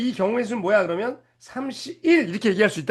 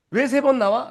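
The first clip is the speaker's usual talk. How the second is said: curious student's question; 5 semitones higher than usual. Retold or imitated. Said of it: "라고 물어보면".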